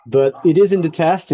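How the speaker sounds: normal talking voice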